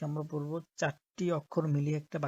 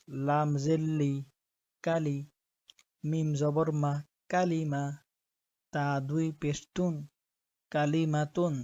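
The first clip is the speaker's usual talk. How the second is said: measured, even-toned Quranic spelling drill; spelling-drill recitation. Shown as a demonstration. Teacher spelling Arabic words for learners, measured recitation. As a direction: spell out each letter and vowel, then join them steadily.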